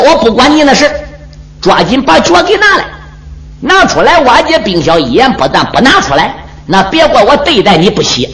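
lightly voiced cocky warrior; brash hero. Hero threatens the old man.

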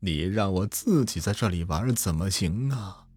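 slow, faint ghostly call; dreamy distant voice. Acted. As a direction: drift it out like a far-off ghost. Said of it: "一阵飘渺的声音传来".

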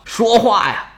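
plain reading voice

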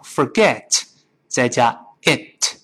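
"forget" slowly with a released t; slow breakdown. Shown as a demonstration. Teacher splits the phrase for learners, slow word-by-word. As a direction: separate "forget" and "it" clearly.

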